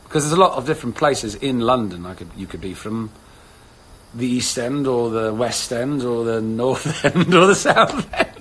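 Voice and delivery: proper London accent, breaking into laughter. Shown as a demonstration. Touring London districts for viewers, London accent. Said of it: "like, proper London".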